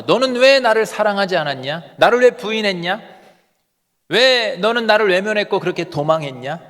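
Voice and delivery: mock rebuke. Preacher imagines Jesus rebuking Peter, mildly reproachful. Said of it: "라고 책망할 수 있는데".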